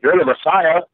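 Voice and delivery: mock him, get us down; lightly voiced jeering criminal. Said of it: "he's mocking him".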